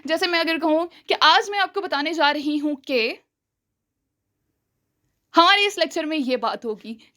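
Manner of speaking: long suspenseful pause after "कि" before "हमारे इस लेक्चर में"; dramatic pause. Shown as a demonstration. Teacher showing a dramatic pause before revealing the topic. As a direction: stop dead after "कि", then reveal. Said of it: "यहाँ पे लंबा pause लिया ना".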